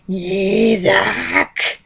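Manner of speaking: seething call of the name; hissed through gritted teeth. A narrator's reading. Shiho seething at Yuzak, hissed through gritted teeth. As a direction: hiss the name at him in anger. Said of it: "she hissed through gritted teeth".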